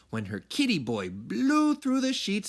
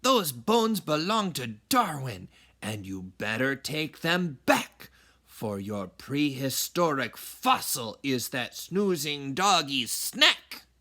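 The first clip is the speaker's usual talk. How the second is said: stern mama. Acted. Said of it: "declared Mama".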